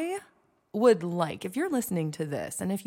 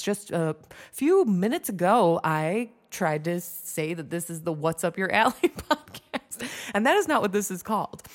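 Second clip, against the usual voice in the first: laughing; 3 dB louder than usual. Real, not acted. Retelling her embarrassing slip.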